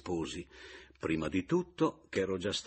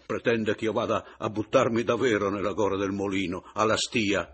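mocking bravado; 3 semitones higher, 9 dB louder than usual. Mocking husband, teasing wife.

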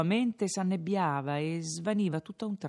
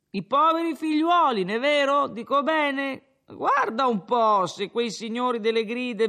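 tipsy rambling higher, louder; a drunk lecturing the innkeeper, pleased with himself; slurred tavern speech, rising as he goes; drunken Renzo; 5 semitones higher, 7 dB louder than usual. Acted.

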